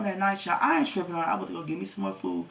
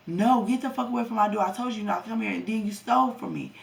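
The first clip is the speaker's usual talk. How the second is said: loud higher mock telling-off; angry yell; 4 semitones higher, 3 dB louder than usual. Telling the boyfriend to leave her door, retold angry yell. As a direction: throw him off the doorstep.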